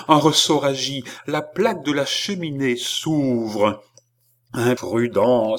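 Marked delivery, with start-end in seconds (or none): 4.5-5.6 slow self-reproaching cry; anguished exclamation; exclaiming. Acted. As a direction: cry it out at yourself. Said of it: "s'écria Balsamo".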